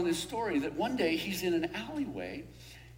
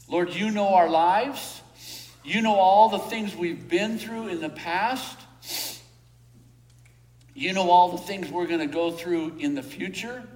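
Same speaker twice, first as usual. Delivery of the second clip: prayer. Real, not acted. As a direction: pray it out to God. Leads the closing prayer.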